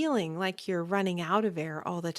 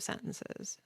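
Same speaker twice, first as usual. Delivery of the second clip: vocal fry; 11 dB quieter than usual. Shown as a demonstration. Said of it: "vocal fry at the ends of".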